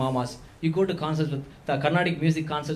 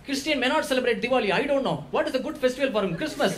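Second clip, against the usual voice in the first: uncle's inner voice; 5 semitones higher than usual. Retold or imitated. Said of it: "he has thought".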